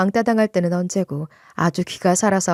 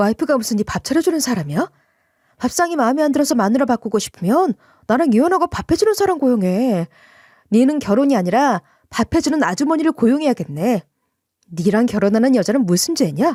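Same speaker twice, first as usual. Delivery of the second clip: angry, heated, cutting tone; 3 semitones higher than usual. Retelling a fight over dinner with the husband: retelling an angry retort. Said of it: "제가 순간 열받아서 저도 똑같이 숟가락 던지며 말했어요".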